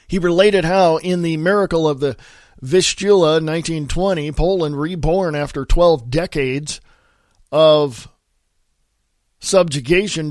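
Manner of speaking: emphatic news-column reading; article read aloud. Acted. Host reads a Buchanan column to listeners, emphatic read-aloud. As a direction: read it out firmly, lifting the key phrases.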